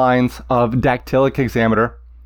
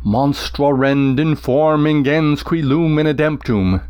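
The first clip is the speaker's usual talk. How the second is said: slow, heavy lunging Latin line; limping recitation; slower than usual. Shown as a demonstration. Teacher reading the Cyclops line, slow and lurching. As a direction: drag it like a limping monster. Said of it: "Can you hear that limping".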